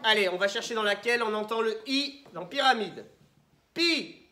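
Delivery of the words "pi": « Pi » détaché, haut et fort; syllabe isolée. Shown as a demonstration. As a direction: lance « Pi » seul, bien sonore. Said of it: "combien de syllabes". (« Pi » scandé pour la classe)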